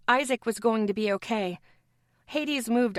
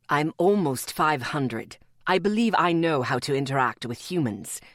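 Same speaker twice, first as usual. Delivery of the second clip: Atticus countering; 6 semitones lower than usual. Acted. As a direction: push back with calm authority. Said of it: "he countered".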